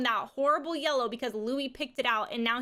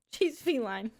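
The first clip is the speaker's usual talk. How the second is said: laughing at your own mistake; tickled by a silly slip; amused at own slip; slower than usual. Real, not acted. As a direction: repeat the slip through a laugh, drawn out.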